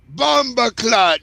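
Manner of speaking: put-on Caribbean accent. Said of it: "Caribbean exclamation".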